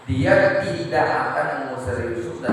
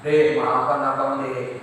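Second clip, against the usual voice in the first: tender apology; 3 semitones lower, slower than usual. Acted. Husband apologizing to his wife.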